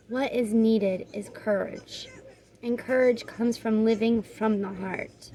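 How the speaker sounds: measured, even oracle-card reading; guidebook read-aloud. Real, not acted. Reader giving viewers the card's message, measured read-aloud.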